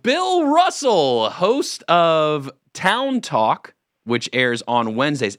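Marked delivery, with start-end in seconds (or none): 0.0-3.7 high, loud, very drawn-out announcer call; big, slow showman's intro; grand announcer introduction. Acted. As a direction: announce a guest like a star, stretching every word. Host grandly introduces a caller.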